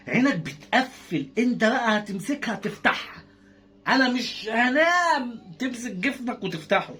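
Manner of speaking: slow, drawn-out sleepy commentary; lazily narrated bedtime tease; slow teasing narration. Acted. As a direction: drag the words like heavy eyelids. Narrating toddler fighting sleep.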